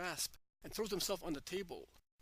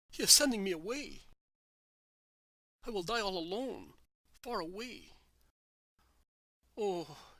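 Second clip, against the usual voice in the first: louder, higher anguished outcry; desperate shout; 3 semitones higher, 5 dB louder than usual. A narrator's reading. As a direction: cry out in despair at being sent away. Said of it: "John convulsed face and shouts".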